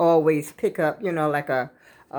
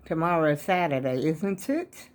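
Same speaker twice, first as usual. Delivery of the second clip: talking around a wad of gum; chewing gum. Real, not acted. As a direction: chew gum while you speak. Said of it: "Let me get rid of this gum".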